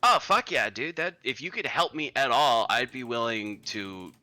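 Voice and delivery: a harried relative at his wit's end; a hint of an exasperated nephew; worried relative.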